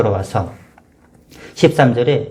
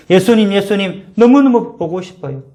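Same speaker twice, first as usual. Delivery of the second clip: crying out; 6 semitones higher than usual. Retold or imitated. Mary at the empty tomb crying to Jesus, pleading higher. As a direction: cry out his name in longing. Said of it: "이렇게 아마 울부짖었을 겁니다".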